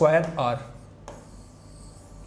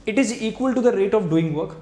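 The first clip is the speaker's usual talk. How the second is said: slow dictation; 4 semitones higher, much slower than usual. Shown as a demonstration. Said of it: "dictating definition".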